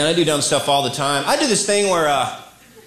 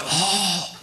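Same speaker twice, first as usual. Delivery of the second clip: West Coast voice; 4 semitones higher, 7 dB quieter, much slower than usual. Retold or imitated. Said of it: "If I'm on the West Coast".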